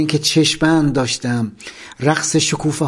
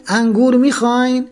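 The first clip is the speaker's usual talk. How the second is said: loud call; 8 semitones higher than usual. Retold or imitated. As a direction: call out again, mock-loud. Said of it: "با صدای بلند گفت".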